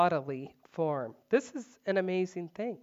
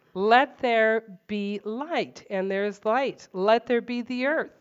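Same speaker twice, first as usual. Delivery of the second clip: commanding God; 3 semitones higher, 5 dB louder than usual. Acted. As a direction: boom it out like a decree. God speaking creation into being.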